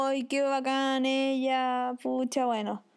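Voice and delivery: slow, mildly sad admiration; understated disappointed sigh of a line; wistful resignation. Acted. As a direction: let it out slowly, a touch resigned. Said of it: "Eso es como triste".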